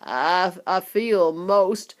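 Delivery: slow, halting gasps; a touch of breathless queasiness; gasping girl. Acted. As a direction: daughter gasping as she swells. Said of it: "gasped Violet".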